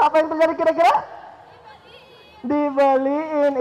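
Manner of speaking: ordinary talk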